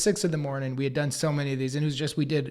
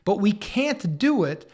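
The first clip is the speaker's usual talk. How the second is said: getting heated; 4 semitones higher than usual. Retold or imitated. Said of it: "Gareth, I'm getting hot here".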